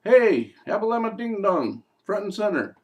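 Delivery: high, loud summons across a distance; chief demon calling. Acted. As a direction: call out like a teasing boss. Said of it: "he sees him way in the distance, says".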